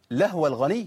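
"لهو" as lahwa, no vowel after the H; wrongly stilled H. Shown as a demonstration. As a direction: recite the mistake: swallow the u of "لهو". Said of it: "تسكين الهاء". ("لهو" غلط بتسكين الهاء)

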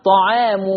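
طعام ending in -mu; damma on mim. Shown as a demonstration. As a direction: say طعام as "ta'aamu". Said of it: "والميم مضمومة".

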